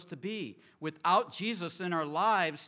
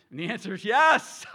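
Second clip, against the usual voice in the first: louder and higher, owning it for a laugh; husband admitting he wanted to win; comic loud admission; 5 semitones higher, 11 dB louder than usual. Real, not acted. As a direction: blurt the confession playfully. Sheepish admission to congregation.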